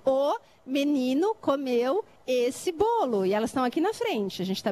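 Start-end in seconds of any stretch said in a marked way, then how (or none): 0.0-3.2 slow, word by word; teacher spelling out a sentence word by word; slow demo sentence. Shown as a demonstration. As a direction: space out each word for the children. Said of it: "Por exemplo".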